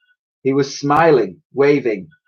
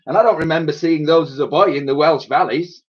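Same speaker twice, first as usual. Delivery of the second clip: lightly voiced old Welshman; a hint of a Welsh lilt; old Welsh soldier; 5 semitones higher, faster than usual. A narrator's reading.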